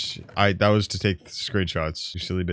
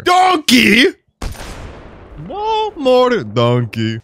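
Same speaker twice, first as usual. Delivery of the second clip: high, loud cry of the name; excited yell; 13 semitones higher, 4 dB louder, much slower than usual. Real, not acted. Gamer spotting a donkey, yelling high and loud. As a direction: shout it out, thrilled.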